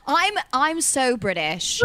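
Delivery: drawn-out mock British accent; playful British put-on, slow. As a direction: insist playfully in fake British. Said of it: "my accent's not bad".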